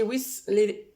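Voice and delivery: English words with a French accent; French-accented English label reading. Real, not acted. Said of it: "excusez-moi pour mon accent".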